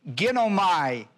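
"Ginomai" said slowly as kɪ̃noʊmaɪ; teacher modelling "Ginomai"; slow Greek word. Shown as a demonstration. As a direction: spell out "Ginomai" slowly, syllable by syllable. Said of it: "That's ginomai".

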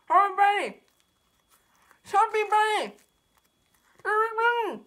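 cheeks stuffed full. Real, not acted. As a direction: mouth crammed with marshmallows. Chubby Bunny challenge, mouth stuffed.

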